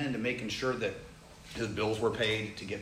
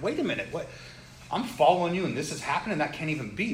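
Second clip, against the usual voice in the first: higher, pleading protest; imitating a man who can't accept it; retold disbelief; 4 semitones higher, 5 dB louder, faster than usual. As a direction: argue back in bewildered disbelief. Retelling man arguing with God.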